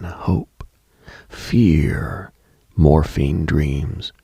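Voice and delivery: eerie whispered list; whispered words. Acted. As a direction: breathe the words out unvoiced. Listing hospital night feelings.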